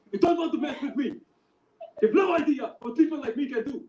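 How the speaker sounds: mock tough-guy accent, shouting threats; menacing Arab accent. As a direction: put on a scary foreign accent to intimidate. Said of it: "words, accents, everything".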